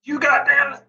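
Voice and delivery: choked-off attempt at a raging grandpa; Angry Grandpa voice. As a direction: try to bellow like a cranky grandpa. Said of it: "when I try to do that angry grandpa voice like David does".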